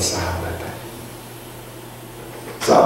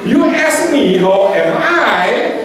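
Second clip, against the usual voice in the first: hurt complaint, pitched higher; upset friend; 12 semitones higher, slower than usual. Retold or imitated. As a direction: act the annoyed friend. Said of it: "Itu kesel orangnya itu". (teman yang kesal, nada tinggi)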